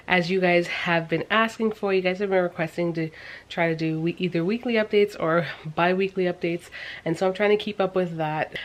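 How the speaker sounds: talking out of breath; short of breath while speaking. Real, not acted. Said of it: "I apologize for being out of breath".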